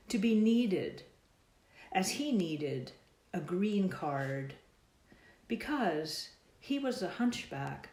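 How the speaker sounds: measured, deliberate verse delivery; slow poem reading, words drawn out at line ends; poetry reading. Acted. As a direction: recite line by line, pausing after each. Reads own poem aloud.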